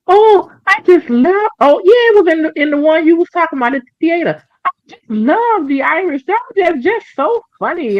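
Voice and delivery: high, gushing mock voice; imitating a fan. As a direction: gush like a starry-eyed fan. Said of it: "this one man said to him".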